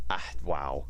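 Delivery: breathy stunned whisper; barely voiced, amazed; whispered wow. Real, not acted. Stunned at mic playback.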